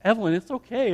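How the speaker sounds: soft fatherly comfort, retold; reassuring. Dad comforting his crying daughter, soft reassurance. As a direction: gently soothe a crying child.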